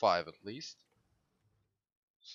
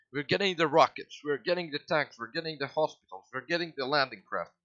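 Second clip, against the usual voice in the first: higher, louder, eager rundown; excited list; 4 semitones higher, 4 dB louder than usual. Real, not acted. Streamer hyped over his tech picks, excited listing. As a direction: rattle off each pick with glee.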